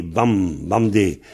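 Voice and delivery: Bamdé with an open a, like Bam; Fantin pronunciation. Shown as a demonstration. Teacher showing the Fantin dialect, Bamdé with an open a. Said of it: "en fantin, on prononce Bamdé".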